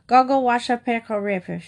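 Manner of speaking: put-on baby babble.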